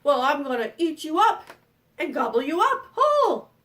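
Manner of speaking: loud, threatening troll voice; mean troll. Acted. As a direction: menace the little goat, loudly. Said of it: "said the mean troll".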